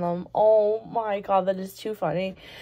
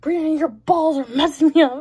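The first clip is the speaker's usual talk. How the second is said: higher, louder, fast teasing quote; quoting the girl; 6 semitones higher, 5 dB louder, faster than usual. Retold or imitated. League girl teasing Brianna about her balls, mock complaint. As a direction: toss it off quickly in her voice. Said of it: "then she's like".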